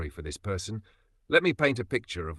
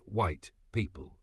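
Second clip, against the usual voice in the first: sarcastic mantra; 5 dB quieter, much slower than usual. Retold or imitated. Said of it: "keep the mantra".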